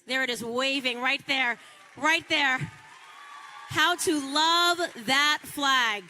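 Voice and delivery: loud rally call, slowing at the end. Real, not acted. Showing the audience the flag, loud rally shout. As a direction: point and shout to the crowd.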